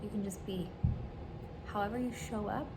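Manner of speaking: gentle reading. Shown as a demonstration. Reads out a supportive script.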